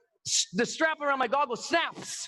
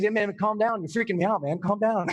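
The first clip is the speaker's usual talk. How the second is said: low, lightly voiced chilled-out guide; laid-back instructor; 3 semitones lower than usual. Instructor to freaking-out student, low and easygoing. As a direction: imitate a guide settling someone down.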